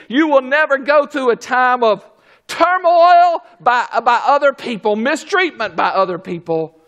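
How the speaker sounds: rising, pressing sermon cadence; preaching build. Real, not acted. Preacher building toward the congregation's comfort. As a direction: build it line by line to a peak.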